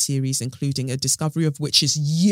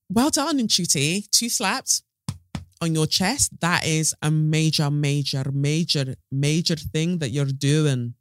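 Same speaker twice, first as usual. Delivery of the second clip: put-on Scottish accent; slower than usual. Podcaster praising the new Doctor, in a mock Scottish accent. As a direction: congratulate in an amateur Scottish accent. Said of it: "that was my Scottish accent".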